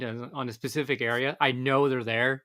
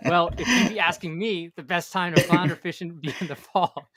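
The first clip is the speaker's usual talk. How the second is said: higher, louder pirate voice; 5 semitones higher, 6 dB louder than usual. Pretend. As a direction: ham it up like a sea pirate. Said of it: "my pirate voice here".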